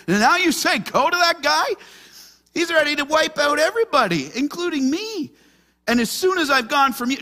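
high, pleading voice of a frightened servant; anxious Obadiah. Preacher voicing Obadiah's panicked plea to Elijah. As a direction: plead like a man sure he'll be killed.

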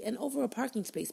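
ordinary talk

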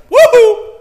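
high, loud whoop; excited cheer. Shown as a demonstration. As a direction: let out a jubilant woohoo. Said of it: "that should get you somewhat excited".

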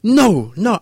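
put-on high, loud child's wail of no; kid wailing no. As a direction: whine it like a crying four-year-old. Kid refusing again.

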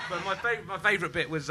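talking while blowing nose. Real, not acted. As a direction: speak through a hanky at the nose. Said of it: "I'm blowing my nose".

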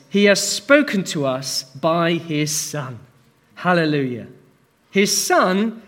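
measured, solemn Bible reading with weight; scripture reading. Acted. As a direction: read the verses out to the church. Reads Hebrews aloud to congregation.

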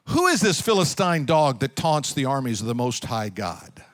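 low, grave and defiant; David's bold answer. Acted. Young David answering the taunting giant. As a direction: answer the giant solemnly and firmly. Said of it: "he goes".

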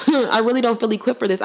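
quick, laughing repeat of I really don't feel equipped for this; laughing retake. Retold or imitated. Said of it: "I was sounding like Moses".

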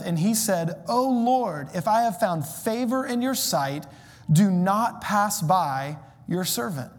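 slow, measured Bible reading; scripture reading. Acted. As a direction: read the verses with weight.

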